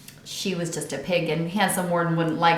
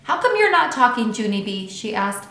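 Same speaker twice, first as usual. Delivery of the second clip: pestering worry; 6 semitones higher, 4 dB louder than usual. A narrator's reading. Grace jiggles silent Junie B.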